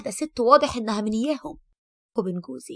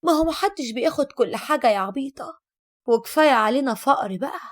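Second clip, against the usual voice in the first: louder, scornful mother's comeback; mocking retort; 5 dB louder than usual. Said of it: "ردت أمي بتريقة وقالت".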